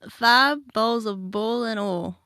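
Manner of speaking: forced Appalachian accent. Shown as a demonstration. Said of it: "You forced that a little bit there".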